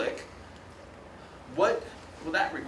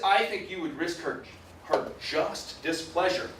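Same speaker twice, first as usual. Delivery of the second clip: put-on Southern accent. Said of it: "then I'm stuck in an accent".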